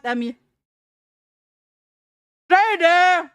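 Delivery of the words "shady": excited greeting. Real, not acted.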